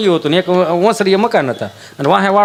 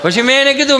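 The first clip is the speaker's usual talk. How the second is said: normal talking voice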